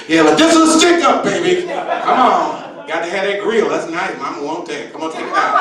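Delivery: a sweet granny pulling a stick-up; sweet old lady robber. Retold or imitated. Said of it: "the little old nice white lady said".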